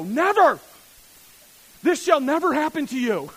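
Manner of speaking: loud, high shouted refusal; inner voice shouting. Retold or imitated. The flesh shouting down a good prompting, loud. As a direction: bellow the no like a stubborn inner voice. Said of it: "hear your voice inside you go".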